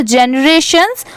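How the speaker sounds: first "जनरेशंस" as je-ni-RAY-shuns; joined syllables. Shown as a demonstration. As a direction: keep jeni audible in "जनरेशंस". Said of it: "आप ऐसे भी पढ़ सकते हैं". ("जनरेशंस" को जेनी-रेशंस जोड़कर बोलना)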